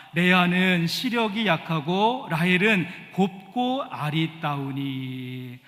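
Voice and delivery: measured, projected congregational Bible reading; formal scripture recitation, slowing at the close; scripture read aloud. Acted. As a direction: lead everyone reading the verse, drawing out the last word.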